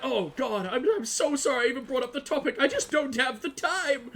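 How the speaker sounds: overly polite, apologetic quote; mock apologetic. Gamer mimics Igor being nice to everyone else, mock apologetic. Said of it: "Everyone else, he's like".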